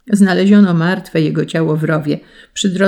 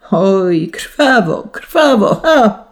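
rising higher and louder into a mad "ha!"; mad shout; 4 semitones higher, 4 dB louder, much slower than usual. A narrator's reading. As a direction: let it climb until it breaks into a crazed laugh. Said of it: "krzyczeć począł jak szalony".

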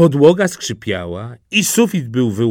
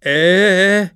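higher, stalled hesitation sounds; dumbstruck stammer; 6 semitones higher, 3 dB louder than usual. A narrator's reading. Suitor lost for a witty reply, dumbstruck. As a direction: grope for words and find none. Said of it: "stanął jak wryty".

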